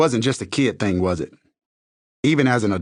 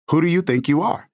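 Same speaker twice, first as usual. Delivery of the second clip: confrontational challenge; 4 semitones higher than usual. Retold or imitated. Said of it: "It's a challenge".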